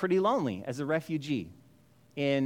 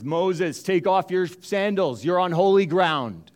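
voice of God; 5 dB louder, slower than usual. Acted. God speaks from the bush.

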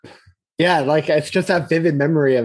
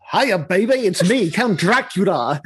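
Dracula quote; 5 semitones higher than usual. Retold or imitated. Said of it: "And he goes".

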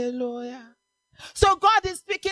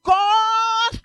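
righteous anger; 3 semitones higher, 4 dB louder than usual. Acted. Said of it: "righteous anger has risen in God".

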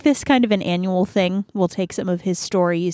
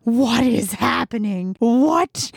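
slow, disbelieving demand, rising at the end; retold indignant bafflement; mock outrage; slower than usual. Groom learning he married his ancestor, mock-angry disbelief. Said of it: "super angry".

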